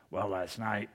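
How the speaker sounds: a hint of a small-town man's low talk; Smokey Tanner. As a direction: quote him in a low, subdued voice. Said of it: "that's the way he talked".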